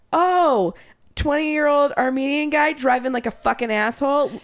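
lightly voiced as her blunt racist self; mild mock sneer at the driver; her racist persona. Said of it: "racist Courtney, I was like".

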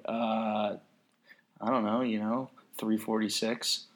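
soft, hesitant, offhand imitation; reluctant modest answer. Runner giving a mile time to a non-runner, reluctant and understated.

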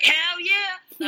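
high, loud, thrilled yell; excited shout. Retold or imitated. Telling a Boston-bound seatmate his final stop, excited loud shout. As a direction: blurt it out, overjoyed to be home. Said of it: "And I was like".

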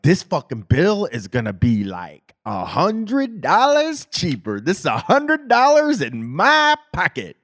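hopeful, rising glee; excitedly imagining the savings. Retold or imitated. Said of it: "I opened that thing up like".

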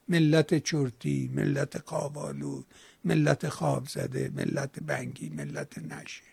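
slow, soft, fading to a murmur; quoting drowsily. Retold or imitated. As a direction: let each phrase sink sleepier.

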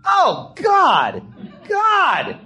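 high, loud panicked shriek; hammed-up terrified yelling; horrified scream. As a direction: scream in shock at being tricked. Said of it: "all of a sudden you hear me go".

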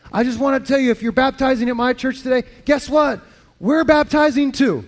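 fired up. Retold or imitated. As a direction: relay a friend's eager phone message. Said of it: "he was so fired up".

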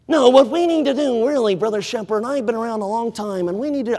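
hushed mock church planner; theatrical voice. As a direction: ham it up for effect. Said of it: "I don't know I'm talking like this, but just for theatrical sake".

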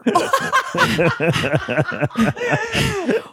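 long, high-pitched cry; mock panicked outburst. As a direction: let out a drawn-out high shriek-laugh. Acts out panic at the pelican.

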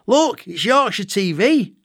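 put-on high, slow, excited child call; child shouting excitedly. Boy calls to his dad about the TV, excited high shout. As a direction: call out to dad like a thrilled kid. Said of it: "I shout to my dad".

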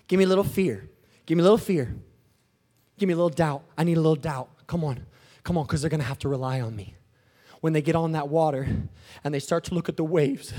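low, soft, urging voice; hushed coaxing. Acted. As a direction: drop low and coax it out. God quietly asking for fear, doubt.

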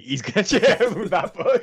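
laughing through the words; can't hold back the laugh while joking; amused, breaking into laughter mid-line. Real, not acted. Joking about a cheating player.

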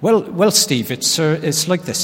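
lightly attempted broad Irish accent. Retelling the electrician's answer to a customer, Irish accent. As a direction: have a go at an Irish brogue. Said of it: "in a really broad Irish accent, which I'll try and do".

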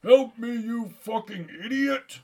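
high, loud cry for help; Santa's exasperated holler; desperate shout. Acted. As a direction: yell angrily at a deserter. Captive Santa calls out for help.

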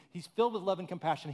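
filled with love and compassion rattled off fast; quick restatement. Shown as a demonstration. Preacher repeating the line to the congregation, brisk. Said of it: "I love that line too".

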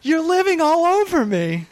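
put-on high kvetching Yiddish accent voice. Voicing the mountain with Jewish jokes.

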